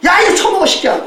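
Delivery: high, coarse shove of an offer; rude mock yell. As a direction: imitate a rude tourist barking an order. Mimics rude tourist offering food. (높은 목소리로 거칠게 윽박지르는 흉내)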